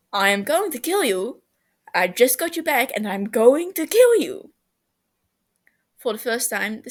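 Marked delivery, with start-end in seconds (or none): 0.1-4.5 mock threat.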